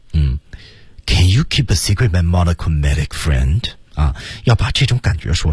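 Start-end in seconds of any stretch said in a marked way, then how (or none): 1.0-3.6 fast, smooth, flowing, unbroken delivery with no breaks. Showing how someone of this status speaks: smooth, unbroken delivery. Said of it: "说话都是非常的怎么样呢？非常畅通。".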